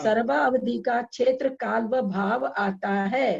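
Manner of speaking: drawn-out, deliberate read-aloud; slow reading. Shown as a demonstration. Teacher finishing the quoted rule for students, slowly. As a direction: read slowly, stretching out the phrase. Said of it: "मैं बहुत धीरे धीरे पढ़ रही हूँ".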